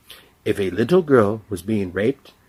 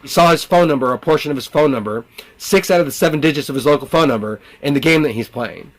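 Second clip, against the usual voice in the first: higher, put-on intruder voice; taunting voices; 4 semitones higher than usual. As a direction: speak as a boastful intruder, pitched up.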